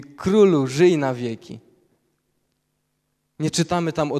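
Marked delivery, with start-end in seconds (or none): 0.0-1.6 proclaimed greeting. Acted. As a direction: cry it out like a herald to the king. Greeting proclaimed at full force.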